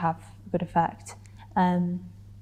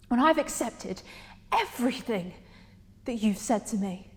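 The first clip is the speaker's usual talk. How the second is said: spaced phrases, falling away softer; hurt confrontation; 4 semitones higher, 4 dB quieter than usual. Acted. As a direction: lay it out for him piece by piece. Monologue confronting Adrian.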